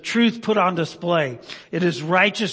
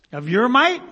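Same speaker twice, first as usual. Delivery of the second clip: mock wrong reading; 5 semitones higher than usual. Shown as a demonstration. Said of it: "No, he says of, of his might".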